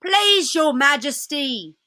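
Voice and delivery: a hint of a timid old fox begging; nervous pleading fox. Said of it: "said the fox".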